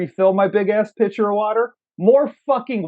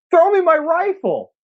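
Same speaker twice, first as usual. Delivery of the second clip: mock action hero. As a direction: bark an order mid-battle like a movie hero. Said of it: "J C V D goes".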